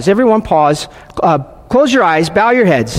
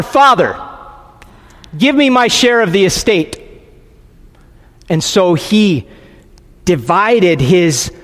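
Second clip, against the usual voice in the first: scripture reading; 2 semitones higher than usual. A narrator's reading. Preacher reads parables of coin and sons to worshippers, emphatic and deliberate. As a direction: read it out with building emphasis, then measured pauses. Continues reading the Gospel aloud.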